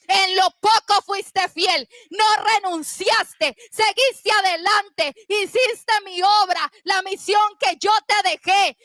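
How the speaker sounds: rhythmic, building sermon in punched phrases; impassioned pulpit proclamation; fired-up preaching. Real, not acted. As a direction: preach it as a triumphant declaration.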